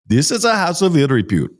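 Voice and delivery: light imitation of a harsh Indian accent; imitating Indian driver's harsh accent. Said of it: "his accent was so harsh".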